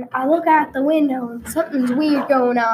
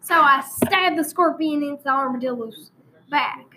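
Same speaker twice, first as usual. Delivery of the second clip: hammed-up rural Texas storyteller; country Texan accent, played for laughs; put-on Texan accent. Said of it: "I'm gonna change accents for a while".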